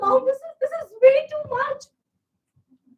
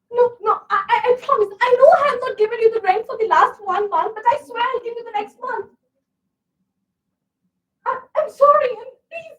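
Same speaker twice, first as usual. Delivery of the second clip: anxious begging for more time; desperate pleading; 3 dB louder than usual. Acted. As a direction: beg the landlord, voice straining. Begging landlord over rent.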